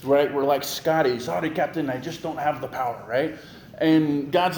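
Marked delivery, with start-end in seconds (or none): 1.2-3.0 hammed-up Scottish engineer, badly faked; lightly voiced, unconvincing Scottish burr; bad Scottish accent. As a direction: attempt a clumsy Scottish accent. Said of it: "That was a horrible accent".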